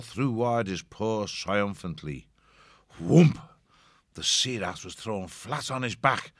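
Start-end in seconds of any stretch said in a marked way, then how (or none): 3.0-3.4 sudden loud whoomp; loud impact word. A narrator's reading. Narrator voices the ship's sudden crash, loud exclamation. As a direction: punch it out like a heavy thud.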